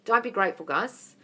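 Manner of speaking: ordinary delivery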